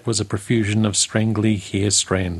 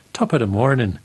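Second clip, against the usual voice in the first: light Irish brogue greeting. Acted. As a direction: lay on a cheery Irish brogue. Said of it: "in his best Irish brogue".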